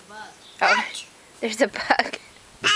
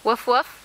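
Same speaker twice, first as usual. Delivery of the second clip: dog noise; 2 semitones lower than usual. Shown as a demonstration. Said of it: "What does a doggy say?".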